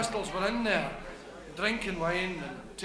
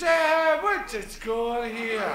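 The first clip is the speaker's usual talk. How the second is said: a hint of a cheeky Glaswegian; lightly voiced wee man, a bit aggrieved; wee apostle; 3 semitones higher than usual. Wee apostle moaning to the big apostle, mock grievance.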